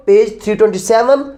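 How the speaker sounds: ordinary delivery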